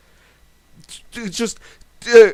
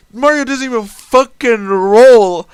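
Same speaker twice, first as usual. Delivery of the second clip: louder, hammering the word roll; angry yell; 2 semitones higher, 6 dB louder than usual. Real, not acted. Complaining to viewers about the game master, loud angry yell. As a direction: vent it loud and indignant. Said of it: "I'm fucking yelling at this point".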